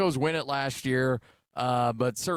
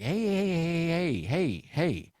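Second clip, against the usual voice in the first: mock scolding dad; 4 semitones higher than usual. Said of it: "And I'm like".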